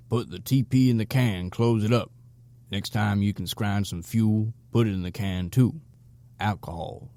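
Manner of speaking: viejo vagabundo dando consejos, voz apenas cambiada; un leve toque de vagabundo sureño instruyendo; gruff old helper. Acted. Blue Jay instructing the pair.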